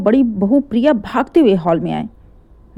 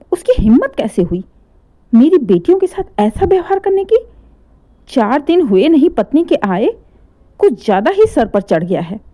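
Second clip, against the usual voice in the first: furious mother, pitch jumping higher; a mother's outraged rant; angry; 4 semitones higher than usual. Acted. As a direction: scold the son's nerve in rising outrage. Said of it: "कहते हुए गुस्से में".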